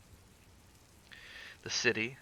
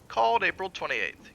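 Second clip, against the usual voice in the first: whispered; 10 semitones higher, 7 dB louder than usual. A narrator's reading. Wilde reads ledger.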